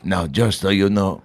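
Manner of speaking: slow, lightly voiced Malkovich; a hint of Malkovich, drawn out; John Malkovich impression. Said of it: "I don't do a Malkovich".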